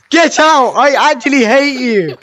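high, loud cry of exasperation; mock outrage. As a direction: playfully yell at a friend who ruined it. Mock outburst at friend spoiling take.

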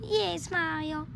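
slow, drawn-out reply; oddly slow delivery. Acted. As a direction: stretch the words out strangely. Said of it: "I don't know why I'm talking like this".

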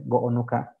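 go'onu ka with a long rearticulated o; Zapotec pronunciation. Shown as a demonstration. Teacher modeling go'onu ka for the class, careful demo. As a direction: stretch go'onu and break the o again. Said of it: "se lo vas a decir a ella".

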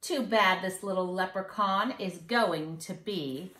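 put-on sing-song rhyme for kids; mischievous leprechaun. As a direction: read it like a cheeky little leprechaun bragging. Leprechaun boasts, reading on.

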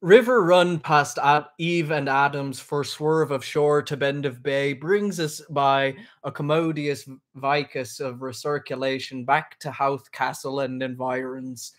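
slow, measured dramatic reading; literary read-aloud. Acted. Host reading Finnegans Wake to viewers, slow recitation. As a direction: read it out slowly, weighing each odd word.

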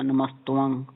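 ਨਮਸਤਵੰਗ said "namastuvang"; "-tuvang" ending on ਨਮਸਤਵੰਗ; "tuvang" pronunciation. Shown as a demonstration. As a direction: put a short "u" after the t in ਨਮਸਤਵੰਗ. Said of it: "ਤਵੰਗ ਹੀ ਪੜ੍ਹਨਾ".

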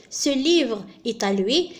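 very slow, word by word; very slow example. Shown as a demonstration. Teacher to students reading the example sentence very slowly. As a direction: let every word land for the learners. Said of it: "الآن المثال الثالث،".

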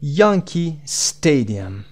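"یانکی استادیوم" as English "Yankee Stadium", strong "Yan" and "Sta"; stress on YAN and STA. Shown as a demonstration. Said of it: "قسمت یان و استی".

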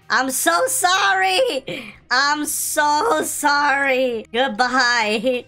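slow, drawn-out fake apology; slow hammed-up apology; mock sorrow. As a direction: stretch it out in mock regret. Taking the only cure.

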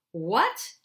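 shocked cry, loud and high; cried out. A narrator's reading. Witch cries out at hearing of Aslan, loud and high. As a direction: burst out in alarm. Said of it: "cried the queen".

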